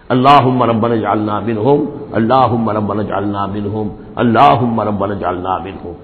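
measured, even prayer recitation; recited dua in a level, chant-like tone; Arabic supplication. Real, not acted. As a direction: intone the prayer evenly, line by line. Recites an Arabic supplication three times.

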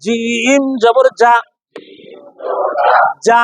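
slow spelling with a firm mid-tongue j in "যা"; hard jim. Shown as a demonstration. Teacher models the letter jim, hard "যা". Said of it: "জিহ্বার মাঝখান থেকে শক্তভাবে".

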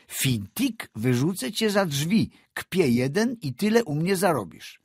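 high, loud, blustering bargaining; bully him over the price; loud haggling. Acted. Landowner berating the engineer over the price, loud and high.

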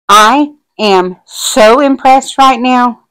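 so impressed said high, loud and slow; can barely contain the thrill, drawn out; gushing excitement. Real, not acted. Crafter gushing over her kit to viewers, excited and slow. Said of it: "I can't even contain myself".

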